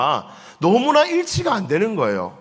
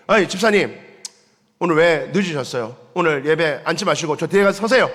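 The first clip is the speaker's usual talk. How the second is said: stern pastor; 3 dB louder than usual. Pretend. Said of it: "제가 이러면".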